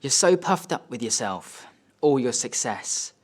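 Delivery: measured, emphatic reproach; scornful dad. Acted. Dad to son after slapping him, scornful rebuke. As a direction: deliver a father's contempt with weight on each point. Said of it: "And he says".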